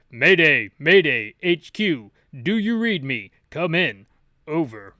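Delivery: loud distress call over radio; radio mayday. Acted. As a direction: bark it into a radio.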